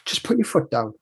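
low, soft, relaxed instruction; calm instructor. Retold or imitated. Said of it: "he was just so calm and relaxed".

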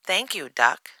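high-voiced bear cub; Little Bear. A narrator's reading. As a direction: thank a guest as a little cub. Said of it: "says Little Bear".

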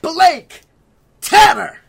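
high, loud sing-song announcer; ringmaster. Acted. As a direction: hype the crowd like a ringmaster. Ringmaster-style show introduction.

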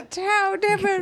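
high and slow through laughter; high laughing repeat; laughing echo. Real, not acted. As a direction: laugh out the words in disbelief.

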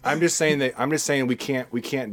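high, loud words through laughter; real laughter in the voice; laughing. Real, not acted. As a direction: keep laughing as you insist.

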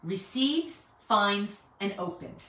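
"receives", "finds", "open" each set apart by pauses; weight on each word: "receives", "finds", "open"; stress on receives, finds, open. Shown as a demonstration. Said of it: "we stress the words".

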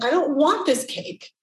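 mock tantrum. Retelling her Whole Foods moment as a pouting child. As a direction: put on a half-joking childish pout. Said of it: "five-year-old tantrum moment".

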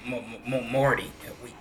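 low, quiet, stammering cartoon-character impression; Rick. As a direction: stammer the opening, then keep it low and hushed. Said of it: "Rick is just like".

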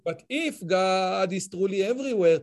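slow English in a thick Israeli accent. Real, not acted. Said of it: "איזה אנגלית עם מבטא ישראלי נפלא".

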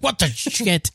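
high, incredulous rising question; mock shock at the twist; stunned disbelief. First viewing of Sixth Sense.

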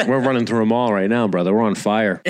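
lightly hammed-up Boston bro; bad Boston accent. Host playing Boston bro to his brother, bad Boston accent. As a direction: pump up your pal in mock Boston. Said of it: "he's got a shitty Boston accent now".

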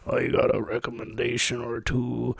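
put-on a gruff low old-timer; character voice. Character voice for recommendation segment.

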